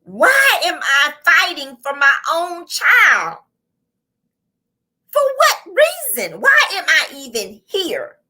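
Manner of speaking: retold disbelief, jumping high on the question; self-questioning in bewilderment, pitch soaring; incredulous. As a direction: ask it as if it still makes no sense. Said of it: "I'm like".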